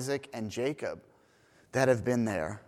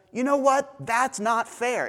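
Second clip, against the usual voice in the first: much higher, loud mock outrage; indignant protest; 10 semitones higher, 4 dB louder than usual. Jonah protesting God's mercy, high indignant complaint. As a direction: whine it like a wronged child.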